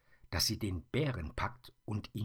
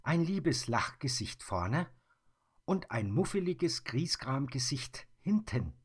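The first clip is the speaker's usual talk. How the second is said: put-on higher, louder girlish voice; marvelling girl; 8 semitones higher, 4 dB louder than usual. Mia shows the bear's two faces, higher and marvelling. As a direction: point out both faces in wonder.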